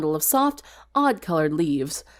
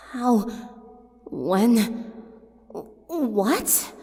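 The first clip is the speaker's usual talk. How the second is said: shocked; 3 semitones higher, much slower than usual. Acted. Sunset sees blood packets on desk.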